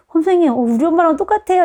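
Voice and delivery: put-on high excited child voice; like a child telling the teacher. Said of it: "이런 말 하는 애들이 있어요".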